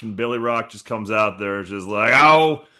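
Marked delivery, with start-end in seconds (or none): 2.1-2.6 mock redneck drawl. Billy Rock's drawled line.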